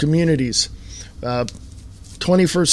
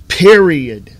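Period. said louder, falling, final; 6 dB louder than usual. Real, not acted. Host repeating his last word louder for emphasis. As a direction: slam the point shut. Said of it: "I'm going to say this one more time".

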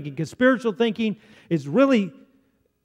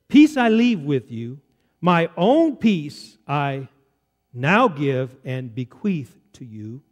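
slow, deliberate Bible reading; Scripture reading; slower than usual. Acted. Preacher reads the Amplified translation to his congregation, slow Scripture reading. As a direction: read it out slowly, weighing each phrase.

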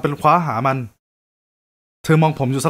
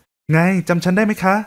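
higher, gentle female voice; kind young woman; 4 semitones higher, slower than usual. Acted. Woman at the buffet offering help, higher gentle voice.

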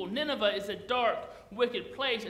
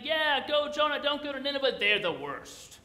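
rowdy fans cheering Jonah on, higher and louder; crowd cheering; 4 semitones higher, 4 dB louder than usual. Retold or imitated. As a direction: egg Jonah on like a rowdy fan. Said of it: "They would have been cheering them".

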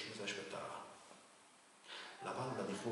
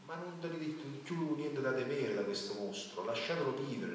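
pleading, higher and louder, a touch of a break; voice broken with emotion; 7 semitones higher, 5 dB louder than usual. A narrator's reading. Knight pleads with the king to spare the dragon, voice breaking. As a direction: beg for the dragon's life, moved. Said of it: "con la voce rotta dalla commozione".

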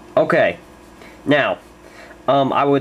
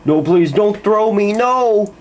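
louder, higher begging; desperate pleading; 4 semitones higher, 3 dB louder than usual. Acted. Duck begging not to be thrown, desperate.

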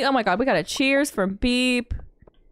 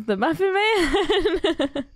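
Muffin Man quote; 8 semitones higher, much slower than usual. Retold or imitated. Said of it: "my brain goes".

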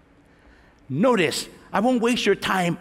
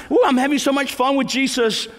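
sarcastic mock; 5 semitones higher than usual.

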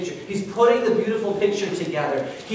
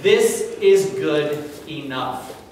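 content sigh. Retold or imitated. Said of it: "He says".

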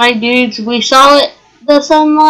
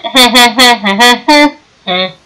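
laughing. Real, not acted. Laughing at own joke.

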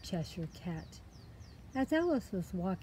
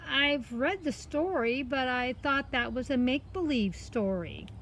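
put-on high girl's voice explaining herself; innocent story girl; 5 semitones higher, 3 dB louder than usual. Girl explains her fright to the cat, innocent. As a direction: pitch it high, earnest and innocent.

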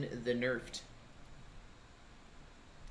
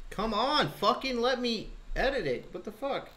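high, strained raging plea; frustrated; 9 semitones higher than usual. Real, not acted. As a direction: rage at the frozen screen. Raging at game not working.

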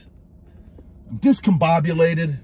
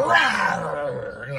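playful beast roar. Acted.

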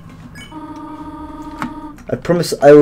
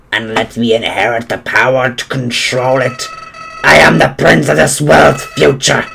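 Flowey impression; 2 semitones lower than usual. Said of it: "my flowery impression".

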